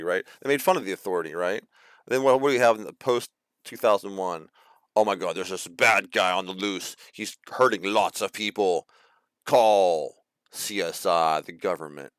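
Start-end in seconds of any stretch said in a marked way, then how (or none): 5.0-12.1 slow, drawn-out mock plea for help; lightly put-on voice of a panicked citizen; mock alarm. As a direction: stretch it out in pretend alarm. Mock panicked public calling for help.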